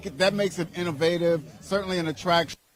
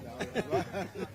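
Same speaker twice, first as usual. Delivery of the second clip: soft laugh; 5 semitones higher, 8 dB quieter than usual. Real, not acted. Laughs at his own remark.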